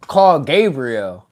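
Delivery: a hint of a calm guiding voice; inner voice. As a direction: give a slow, low-key instruction. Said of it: "when this voice was like".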